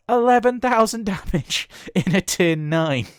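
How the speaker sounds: high, loud, laughing disbelief; incredulous excitement. Real, not acted. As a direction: exclaim it through a laugh. Amazed, laughing at the huge damage.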